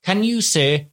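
imitating a condescending child tutor; patronising over-enunciation. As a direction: spell it out for a slow parent. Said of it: "over, elongated the word so I could get it".

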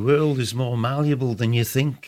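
attempted Liverpool accent, lightly done; a half-hearted Scouse impression of a singer. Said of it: "I can't do a Liverpool accent".

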